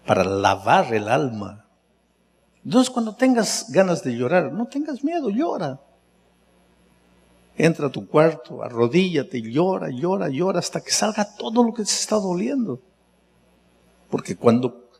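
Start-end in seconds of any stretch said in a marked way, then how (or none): 2.6-12.8 fervent exhortation. Acted. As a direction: coax them to let the tears out. Exhorta a llorar. (exhortación intensa y suave)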